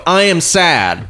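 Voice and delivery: slow, high, drawn-out declaration; mock sad announcement. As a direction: spell the feeling out slowly. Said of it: "Do you go".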